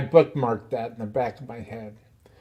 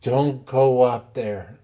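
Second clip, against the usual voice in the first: retold warning; slower than usual. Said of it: "He goes".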